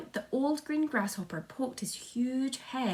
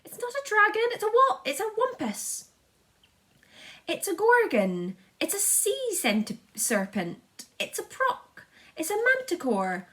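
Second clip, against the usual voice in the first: high, loud frantic yelling; panicked shouting; 7 dB louder than usual. A narrator's reading. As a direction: guess wildly in a panic. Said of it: "all started shouting at once".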